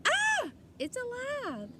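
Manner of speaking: high, slow terrified scream; frightened scream. A narrator's reading. Lady screams when the doll talks, terrified. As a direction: shriek at the living doll. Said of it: "The lady screamed".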